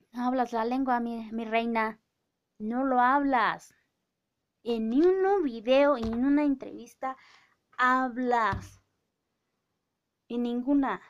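loud, accusing call-out; indignant scolding. Real, not acted. Scolding the actress for never speaking her language, loudly indignant.

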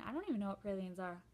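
chewing while talking; eating candied nuts; mouth full. Real, not acted. Seen 0: Hand feeds nuts to mouth; chewing visible while she talks.

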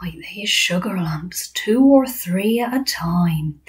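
breathy, lightly voiced giant; slowing into a whispery ending; friendly giant, hushed dread. BFG warning Sophie about man-eater, hushed dread.

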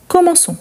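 "commençons" with ç pronounced s; soft S sound. Shown as a demonstration. Teacher shows why the cedilla is added, soft S sound. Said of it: "pour avoir les sons de S".

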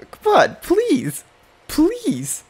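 high-pitched begging; real pleading whine; desperate pleading. Real, not acted. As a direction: beg for luck in a high voice. Begging the pack for the card.

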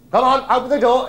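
acted no-nonsense order, high and loud; commanding call. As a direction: call out firmly to someone shut inside. Man repeats order through door.

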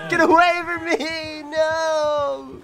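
mock panic. Fleeing monster in game.

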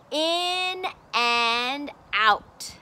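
drawn-out, deliberate title; slow title reading. Shown as a demonstration. Teacher to child, slow clear title. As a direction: read the title slowly and clearly. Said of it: "I'm going to read to you".

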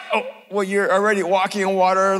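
ordinary talk, nothing marked

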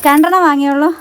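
high, loud, playful scolding of a pet; teasing pet talk. Acted. Owner teasing her dog hiding between the barrels, high loud pet talk. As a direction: tease the dog like a naughty little boy, up high and loud.

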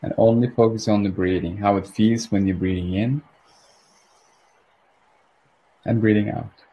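calm, unhurried meditation guidance; guided meditation. Real, not acted. Meditation leader helping listeners find their rhythm, calmly. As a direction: ease listeners gently into their breathing.

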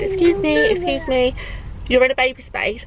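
high, pointed call of excuse me; retold confrontation. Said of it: "I got out of the car and I said".

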